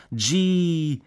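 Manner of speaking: high, loud cry of wonder; shouted exclamation. A narrator's reading. Soldiers on trucks snapping Kodaks, shouted exclamation. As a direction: yell it out like a soldier sightseeing.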